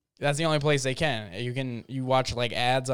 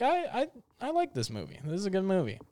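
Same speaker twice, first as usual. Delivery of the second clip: mock delight; 4 semitones higher, 5 dB quieter, faster than usual. Mock enthusiastic viewer.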